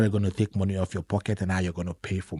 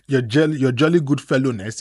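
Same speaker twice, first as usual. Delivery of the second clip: mock exclamation; 4 semitones higher, 7 dB louder than usual. Real, not acted. Mocking lost cheerfulness.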